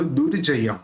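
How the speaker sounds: दुर्जयम as "dur-ja-yam"; र जोड़ कर. Shown as a demonstration. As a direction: link the r into the first syllable of दुर्जयम. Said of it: "र के साथ जोड़ के बोलेंगे". (दुर्जयम में रेफ का र)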